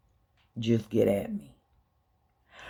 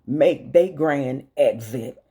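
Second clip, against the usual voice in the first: heated rant that grows louder toward the end; rising anger; 3 dB louder than usual. Real, not acted. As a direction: build from a sharp question to a louder tirade. Rant building against billionaires.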